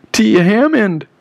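high-pitched, contained cry for help; screamed name. A narrator's reading. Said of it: "I screamed".

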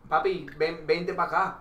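imitating rapid Puerto Rican Spanish; fast Puerto Rican imitation. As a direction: run the words together like a Puerto Rican talker. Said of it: "Yeah, they talk fast".

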